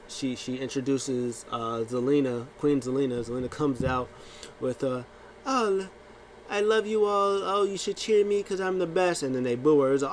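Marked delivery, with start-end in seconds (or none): 5.4-9.2 high, haughty diva voice; arrogant diva. Retold or imitated. Zelina preening to the crowd, high haughty diva.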